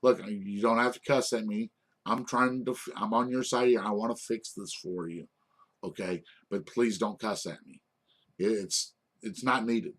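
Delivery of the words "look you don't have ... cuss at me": softer, even tone to an angry customer on the phone; calm and polite. Shown as a demonstration. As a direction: calmly set a boundary without raising your voice. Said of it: "You just calmly say".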